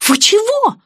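high, loud, outraged yelp; an offended young woman's indignant squeal; indignant outburst. A narrator's reading. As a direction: bristle at the insult. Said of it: "возмутилась блондиночка".

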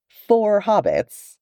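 high, slow disbelieving cry; four hobbits, said with open astonishment; incredulous. Acted. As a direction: stretch it out in disbelief. Nori incredulous at hobbits joining.

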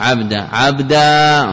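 slow demo. Shown as a demonstration. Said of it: "منعه الجمهور".

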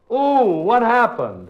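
high startled ooh; surprised. Acted. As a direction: yelp in surprise. Ball hits himself.

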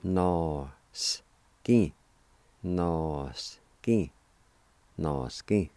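No, skin said with a clear pause between the two parts; repeated demo. Shown as a demonstration. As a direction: repeat No, skin for learners to copy. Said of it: "It's pronounced like this".

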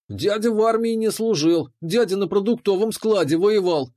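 mock the man in a high, giggly boy's voice; giggling taunt. A narrator's reading. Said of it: "хихикал он".

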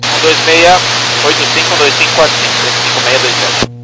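soft, distant radio readback; pilot over the radio. Real, not acted. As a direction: read back over a faint radio. Pilot reading back frequencies.

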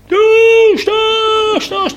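very high shouted cry; madman's scream. Acted. Patient in the ward yells thirst like a madman, very high shout. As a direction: yell it like a madman, high and loud. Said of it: "der schreit wie ein Wirrer".

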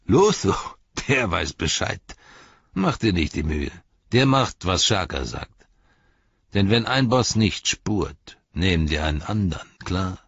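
sneer, then threaten; sneering ruffian. Acted. Ruffian laughing off Lotho, contemptuous threat.

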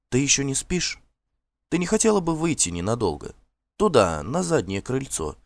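слегка озвученная служанка, голос повыше; осторожная просьба служанки к госпоже; служанка Смилла. Acted. Служанка тихо зовёт госпожу. (голос служанки, чуть выше обычного)

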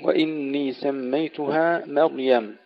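مريم with light first ميم and heavy راء; slow recitation, light ميم then full راء in مريم. Shown as a demonstration. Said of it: "ترقيق الميم الأولى وتفخيم الراء". (ترقيق الميم وتفخيم الراء في مريم)

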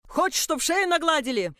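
a lazily voiced yardkeeper; lazy yardkeeper. Yardkeeper lazily shooing the visitor out. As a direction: go through the motions, lazily. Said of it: "лениво просил дворник".

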